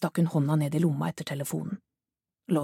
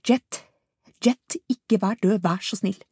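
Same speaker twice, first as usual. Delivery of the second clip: higher, louder, slower begging; frantic pleading sob-like cry; desperate plea; 4 semitones higher, 5 dB louder than usual. Acted. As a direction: plead with her not to be dead. Caller pleading over body.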